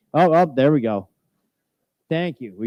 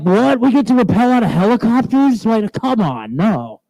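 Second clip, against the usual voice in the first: excited dog voice; 6 semitones higher than usual. Pretend. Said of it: "Margot's like".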